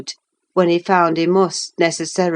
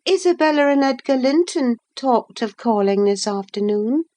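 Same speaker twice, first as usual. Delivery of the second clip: put-on higher girlish voice, mildly scolding; young Catherine, chiding; 8 semitones higher than usual. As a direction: Catherine nudging Heathcliff back to work.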